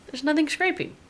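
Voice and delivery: baffled, repeat it with a rising tone; disbelieving. Real, not acted. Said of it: "and there's nothing scraping".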